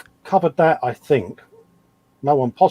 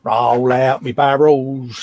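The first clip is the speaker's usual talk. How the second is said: market trader call; much slower than usual. Pretend. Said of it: "Roll out your barrels so I can see".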